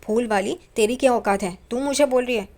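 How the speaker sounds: mother-in-law's indignant outburst, retold; retold angry outburst. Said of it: "Renuka भड़क जाती है".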